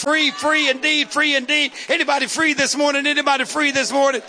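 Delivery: rising shouted sermon cadence, each free hammered; preaching at full force. Acted. Preacher rousing the congregation, full-force shouted preaching. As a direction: whip the church up with every free.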